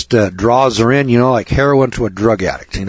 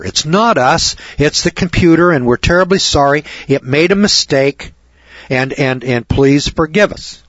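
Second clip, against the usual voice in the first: profuse apology; 3 semitones higher than usual. Retold or imitated. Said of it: "profusely apologizes".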